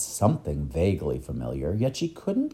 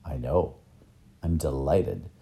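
lower, calmer voice; gentle reassurance; 6 semitones lower, 3 dB quieter than usual. Acted. Professor reassuring the boy, gently delighted. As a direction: settle the child down kindly.

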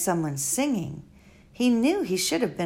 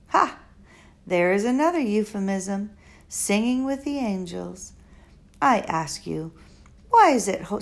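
lightly voiced elderly foreign woman, musing; a hint of an old, wise, rambling lady; Doctor Measham. Old doctor musing to Flora at the bedside, lightly voiced.

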